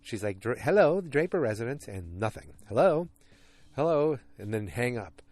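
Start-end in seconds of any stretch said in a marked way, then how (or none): 0.4-1.9 put-on child voice. Sally answering phone. 2.7-4.2 put-on child voice. Sally on silent phone.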